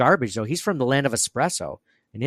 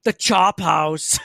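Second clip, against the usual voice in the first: Arnold impression; 5 semitones higher, 5 dB louder, much slower than usual. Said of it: "Arnold Schwarzenegger now".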